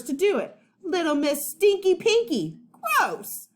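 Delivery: put-on high, loud, childish tirade; bratty rant. Boy ranting at his friend, high and loud. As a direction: pile on the insults like a sulky kid. Eugene ranting at Charlie, quarrel.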